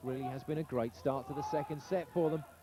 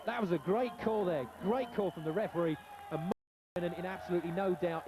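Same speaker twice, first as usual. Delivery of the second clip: excited call; 4 semitones higher than usual. Real, not acted. Commentator reacting to close call.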